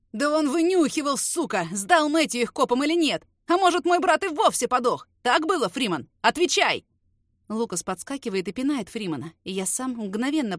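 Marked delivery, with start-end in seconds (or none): 0.1-6.9 louder, higher enraged demands; furious brother demanding answers; angry shouting. Acted. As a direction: scream the questions at him. Brother screaming at beaten traitor.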